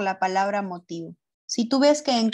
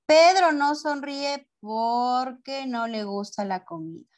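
slow answer with a drawn-out "porque"; slow dictation; slower than usual. Shown as a demonstration. Teacher shows pupils the written answer, slow dictation. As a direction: dictate at writing pace.

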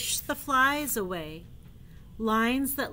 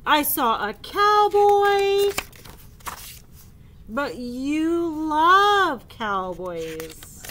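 sad elephant voice; 5 semitones higher, 9 dB louder, slower than usual. Acted. Gerald and Piggy voiced.

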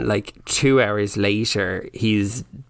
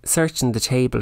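ordinary talk, nothing marked

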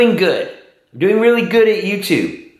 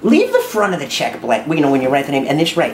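put-on older mom voice; 4 semitones lower than usual. Holds mother character voice.

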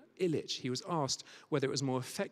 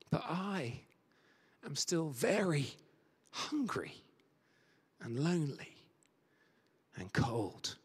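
poem recital; 3 semitones higher than usual. Acted. Reciting the homeless woman's poem.

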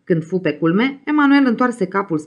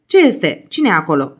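shouting from window; 3 dB louder than usual. Acted. Woman at the window calling to the knocker, shouting. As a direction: call out sharply to whoever is knocking. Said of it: "țipă ea".

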